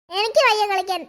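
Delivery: a talking doll speaking gently; magic doll voice. Acted. Doll refuses again.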